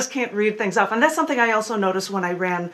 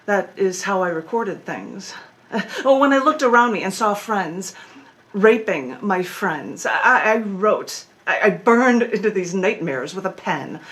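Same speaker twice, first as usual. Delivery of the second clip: performed spoken-word poem, measured phrasing; poetry reading with dramatic pauses; poem recitation. Acted. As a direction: recite it deliberately, leaning on key words. Recites own poem Burn It In.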